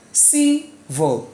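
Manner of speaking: "Civil" with CI high and held, vil dropping; stress on first syllable. Shown as a demonstration. Teacher shows the triangle shape, "Civil" stressed on ci. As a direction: pitch "Civil" up on ci, then fall. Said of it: "So the stress is on the first syllable".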